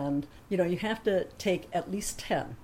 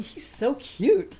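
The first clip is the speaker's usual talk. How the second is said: high, slow, smitten coo; besotted, stretched-out gushing; shoulder-devil cooing; 7 semitones higher, 4 dB louder, much slower than usual. Retold or imitated. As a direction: draw it out high like a swooning inner voice. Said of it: "angel and devil on my shoulder".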